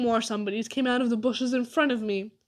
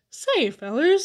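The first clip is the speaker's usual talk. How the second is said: weakly uneasy, pitched up; a nervous, higher attempt to get attention; 6 semitones higher, 6 dB louder, slower than usual. A narrator's reading. Amos to the fellers after hearing the strange men, weakly. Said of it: "said Amos weakly".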